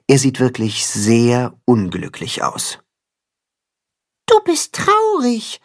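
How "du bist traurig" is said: much higher, gentle little mole; tender mole voice. A narrator's reading. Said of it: "vermutet der Maulwurf mit zarter Stimme".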